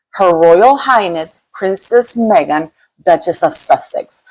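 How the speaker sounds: "Her Royal Highness Princess Meghan" drawn out word by word; slow, deliberate recital of the full title; said slowly. Shown as a demonstration. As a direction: spell out the whole long title slowly, like it's a mouthful. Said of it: "I have to say it slowly".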